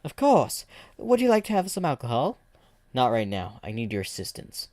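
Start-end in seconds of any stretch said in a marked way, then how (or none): 0.0-2.4 higher, louder put-on Russian accent; hammed-up Russian accent. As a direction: welcome him like a hearty Russian comrade. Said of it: "y'all really gotten accents".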